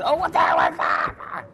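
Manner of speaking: imitating a startled child's shout; a mock yell of alarm, played for laughs; frightened daughter. Dad imitating his scared little daughter, a mock alarmed shout. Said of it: "She goes".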